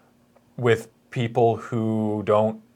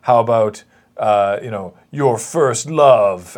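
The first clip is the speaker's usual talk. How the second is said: a loosely mocked villain voice booming from above, slowing at the end; hammed-up booming challenger; 4 dB louder than usual. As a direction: play the taunting god voice half in jest. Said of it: "there's a booming voice".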